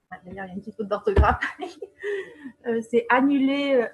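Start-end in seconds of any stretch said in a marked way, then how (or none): 1.5-2.6 short soft laugh; amused laugh. Real, not acted. Presenter noticing her spelling mistake, soft amused laugh. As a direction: laugh softly at your own slip.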